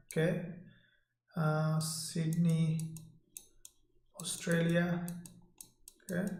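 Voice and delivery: usual speaking voice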